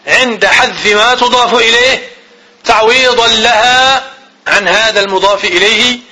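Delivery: slow, word by word, for note taking; dictating pace; slow dictation. Shown as a demonstration. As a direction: read the definition out slowly for students to copy. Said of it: "teacher dictating the definition".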